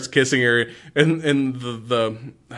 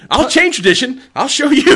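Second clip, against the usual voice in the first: defiant while laughing; 12 semitones higher, 6 dB louder than usual. Retold or imitated. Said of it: "Then you have to, like".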